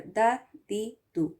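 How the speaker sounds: دا دی دو with crisp short vowels; short vowels on dal. Shown as a demonstration. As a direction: say دا دی دو cleanly, lips spread. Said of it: "اس طرح سے". (دا، دی، دو صاف زبر زیر پیش کے ساتھ)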